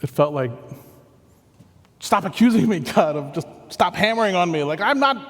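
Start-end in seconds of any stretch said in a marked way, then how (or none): 2.0-5.2 a touch of retold exasperation, pushing back; huffy protest, mildly replayed; indignant. Defending himself against God's rebuke, mildly indignant retelling. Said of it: "there was sort of an indignant tone in my voice".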